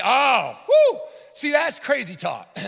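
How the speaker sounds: high, loud scoffing king; a cocky king laughing off his dream; mock dismissive king. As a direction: brush the warning off as crazy talk. Voicing Nebuchadnezzar's dismissal.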